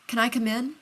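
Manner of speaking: tight strangled plea. A narrator's reading. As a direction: squeeze the words out. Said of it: "in a strangled voice".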